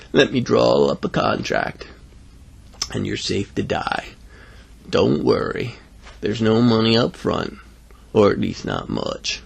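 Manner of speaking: undertaker salesman. Acted. Undertaker offers the boy a contract, lightly voiced slow sales talk.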